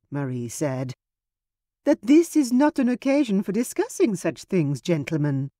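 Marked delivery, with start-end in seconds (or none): 1.8-5.5 high, bright interruption; sister cutting in. Acted. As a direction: cut in quickly, much higher. Marie cuts off tense talk.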